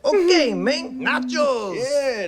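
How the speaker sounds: hammed-up LA cholo accent; Mexican cholo accent. Player told any Latin American accent will do, cholo accent. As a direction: play a caricatured Los Angeles Mexican cholo. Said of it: "sort of Mexican cholo vibe".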